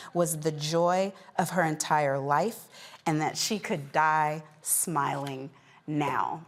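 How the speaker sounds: measured anchor reading an obituary; news read. Acted. Host reporting a beloved centenarian's death to viewers, measured news read. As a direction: deliver it as a closing news story.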